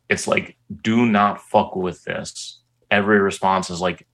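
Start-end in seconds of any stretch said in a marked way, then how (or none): 0.8-2.6 slow, deliberate retold warning; stern warning. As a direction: spell out the warning word by word, slowly. Retold stern warning from Reddit replies.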